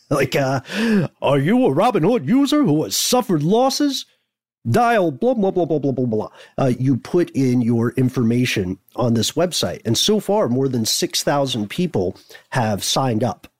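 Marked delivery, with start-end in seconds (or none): 0.3-6.6 swooping, pitched-up ambulance-chaser attorney commercial voice. Showing the kind of voice being asked for, in an ambulance-chaser lawyer voice. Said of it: "I want like a good ambulance chasey lawyer voice".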